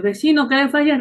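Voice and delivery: lightly voiced neighbour asking; neighbour's greeting. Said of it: "Y después". (saludo de vecino, apenas actuado)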